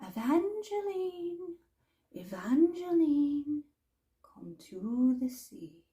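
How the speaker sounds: slow call that starts high and fades to a whisper; a siren-like call that sinks to a whisper; call from the sea. Acted. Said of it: "she could hear the call".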